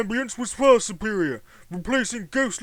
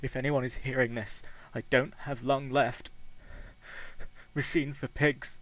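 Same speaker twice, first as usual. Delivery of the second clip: lower, soft, faint with long pauses; dying man's message; 3 semitones lower, 3 dB quieter than usual. Acted. Dying Jamie records his last words, faint. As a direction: speak like a man with moments left.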